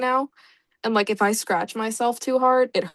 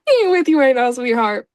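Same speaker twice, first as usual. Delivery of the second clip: teasing; 6 dB louder than usual. Pretend. Repeats line mockingly louder.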